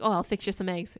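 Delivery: put-on lightly folksy American accent; a hint of cute regional American accent. Husband offers wife breakfast, light American regional accent. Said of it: "Is me doing the accent offensive?".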